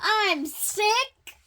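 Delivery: high gasp, then loud disbelief; acted amazement, high and loud; astonished gasp. A narrator's reading. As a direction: gasp and blurt it as a startled question. Elephant learns he is sick.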